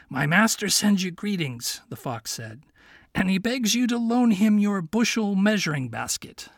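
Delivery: put-on a sly young fox asking his friend. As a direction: play the clever little fox, kindly. Fox addresses the king.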